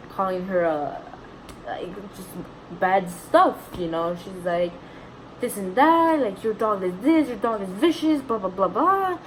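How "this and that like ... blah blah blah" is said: mimicked tirade, pitched up and a bit louder; mock verbal attack. Retelling a stranger verbally attacking her mom, mock rant. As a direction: imitate someone ranting in a singsong blah-blah. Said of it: "verbally attacking my mom".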